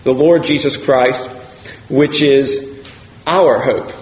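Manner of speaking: pause, then lean on "our" in "our hope"; emphasis falling on "our"; stress on OUR. Shown as a demonstration. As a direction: set "our hope" apart, weight on OUR. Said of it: "we can put the emphasis on".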